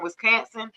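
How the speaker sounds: Wisconsin with a flat "can" middle; local pronunciation. Shown as a demonstration. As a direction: say Wisconsin as "Wis-CAN-sin". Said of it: "We say Wisconsin".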